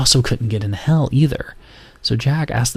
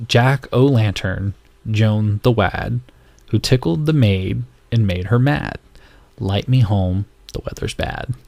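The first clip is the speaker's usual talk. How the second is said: put-on English accent; slower than usual. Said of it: "my English accent going for you guys".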